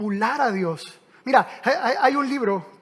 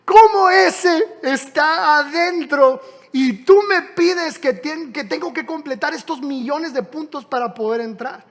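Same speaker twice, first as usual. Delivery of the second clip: outraged protest; 3 semitones higher, 3 dB louder than usual. Retold or imitated. The Christian outraged at Jesus that the neighbour got in. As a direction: demand an answer, offended. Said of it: "le dice a Jesús".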